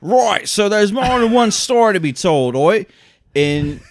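loud, high mock British voice; hammed-up British accent. Host mocking a director's quote, exaggerated British accent. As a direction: shout it in an over-the-top British accent. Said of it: "I'm not doing like a British".

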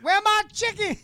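very high put-on cry; mock holler. Co-host carrying on the name bit, mock high holler. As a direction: call it out way up high, hammed-up.

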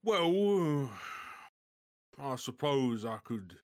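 reluctant giant, hedging; lightly voiced giant. Game master as Grob angling for food, lightly voiced reluctant giant.

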